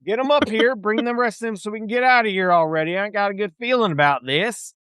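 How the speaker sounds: pirate captain scolding the rowboat crew; irritated pirate captain. Acted. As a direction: bark down at the boat, annoyed. Captain voice again.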